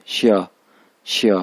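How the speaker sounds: श्या with a short falling tone; fourth tone demo. Shown as a demonstration. Teacher demonstrating श्या in the fourth tone. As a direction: drop श्या quickly. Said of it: "four tone इस पे".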